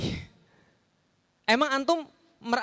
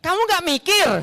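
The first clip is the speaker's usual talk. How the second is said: higher, louder pointed jab; sharp rebuke; 7 semitones higher, 5 dB louder than usual. Shown as a demonstration. Preacher rebuking the congregation in a cutting tone. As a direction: scold the listeners as if they never thought. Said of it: "Kalau dibaca dengan benar begini".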